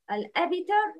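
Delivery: "al-abtar" with a short i-like bounce after the b; qalqala tilted to kasra. Shown as a demonstration. Teacher showing students an impermissible reading, "al-abtar" with b bounced towards i. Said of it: "inclined towards kasra".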